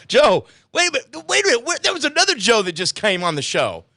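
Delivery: hammed-up high-pitched shock; high mock alarm. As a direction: squeak it out in panic.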